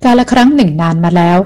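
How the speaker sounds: slow, drawn-out once-upon-a-time; old man slowly opening a fairy tale; slow storyteller opening. Acted. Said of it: "ชายชรากระแอมจนเสียงแจ่มใสดีแล้วก็เริ่มขึ้น".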